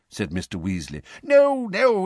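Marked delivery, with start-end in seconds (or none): 1.2-2.1 high, louder panicked no; panicked protest. A narrator's reading. Perkins correcting Arthur, high and alarmed. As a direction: cut him off in alarm.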